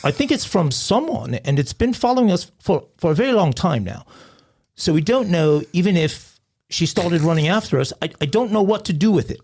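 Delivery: put-on a light British accent, rising worried; British caller. Caller telling dispatcher about a cat, light British accent. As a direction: play a flustered British caller.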